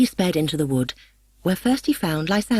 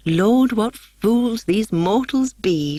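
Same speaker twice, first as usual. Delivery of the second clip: chuckling; 5 semitones higher, much slower than usual. A narrator's reading. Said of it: "chuckled Puck".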